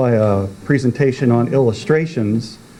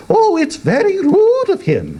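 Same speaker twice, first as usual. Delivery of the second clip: sulky moon. Acted. Sulky moon complaining about the sun, high and huffy. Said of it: "she said".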